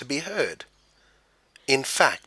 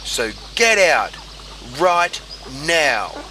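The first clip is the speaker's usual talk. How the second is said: louder, higher furious command; angry order; 4 semitones higher, 5 dB louder, slower than usual. A narrator's reading. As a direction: throw them out of the pond. Duck ordering frogs out.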